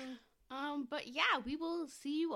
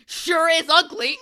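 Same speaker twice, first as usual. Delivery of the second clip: drawn-out mocking drawl; deadpan insult; 6 semitones higher, 21 dB louder, slower than usual. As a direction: say it slow and loud, mock rude. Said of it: "and he just goes".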